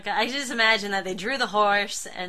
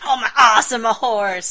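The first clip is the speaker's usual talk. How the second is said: loud, gushing delight over a horse; gushing horse girl; 10 dB louder than usual. Retold or imitated. Saturn Girl gushing about riding a horse, loud and delighted. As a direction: squeal it like she just saw a horse. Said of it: "She's like".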